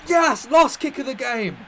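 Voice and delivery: ecstatic roaring celebration; excited shout. Real, not acted. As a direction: yell it like a last-minute winner. Late winning goal celebration.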